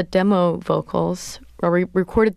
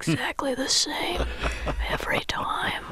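mock controlling; 4 semitones higher than usual. Singer voicing her controlling self when performing, mock-insistent.

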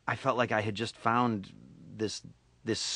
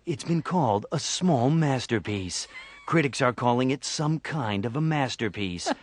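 mock trailer voice praising a film; lightly parodied announcer reverence. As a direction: roll out the acclaim like a promo announcer. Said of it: "reference the word masterpiece in illimitable ways".

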